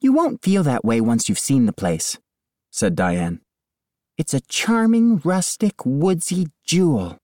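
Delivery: high, slow, syrupy sales voice; lightly voiced chirpy agent on speakerphone; real estate agent. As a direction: gush like an agent selling a house. Diane pitching the house.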